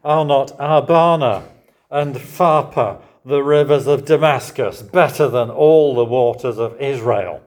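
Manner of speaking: loud, high, indignant outburst; proud general scoffing at the Jordan; indignant protest. Retold or imitated. Naaman scoffing loudly at Israel's river.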